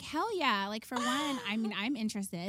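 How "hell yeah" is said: mock enthusiastic yes. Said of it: "and I was like".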